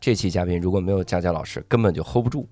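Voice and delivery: speaking through a hoarse throat; rough hoarse voice, sore throat. Real, not acted. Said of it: "因为今天我嗓子哑了".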